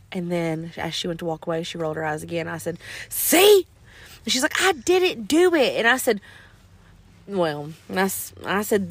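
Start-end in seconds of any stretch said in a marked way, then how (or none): 3.1-3.6 high, loud pounce on the word; retold accusing cry. Mom catching daughter's eye roll, loud accusing yelp. 4.6-5.8 high, drawn-out mock whine; whiny child denial. Seven-year-old denying an eye roll, mock whine.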